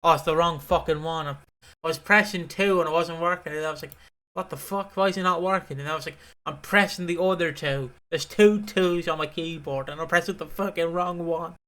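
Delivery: mildly exasperated rant; a touch of flustered frustration; mini meltdown. Real, not acted. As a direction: grumble in mock outrage at the buttons. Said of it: "me having a meltdown over the buttons".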